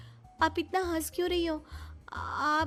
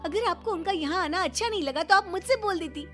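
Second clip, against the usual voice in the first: higher-pitched indignant scolding; angry reproach; 6 semitones higher than usual. Acted. Daughter-in-law confronts mother-in-law over insulted family, angry. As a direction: demand an explanation, hurt and cross. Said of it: "गुस्सा चौथे आसमान पर था".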